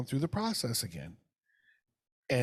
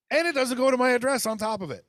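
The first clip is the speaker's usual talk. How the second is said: higher, louder and fast, piling on the outrage; exasperated outburst; 10 semitones higher, 5 dB louder, faster than usual. Real, not acted. Ranting to the co-host about the package, exasperated. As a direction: blurt it out higher and faster. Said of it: "I'm losing my shit".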